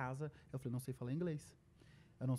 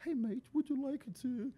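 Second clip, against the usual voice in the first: put-on much higher, slow sing-song Aussie accent; exaggerated lilting Aussie accent; 10 semitones higher, slower than usual. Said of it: "você fala meio cantado".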